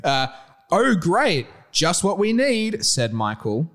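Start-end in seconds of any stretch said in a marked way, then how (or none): 0.7-2.8 tag. Acted. Michael's sarcastic line read aloud.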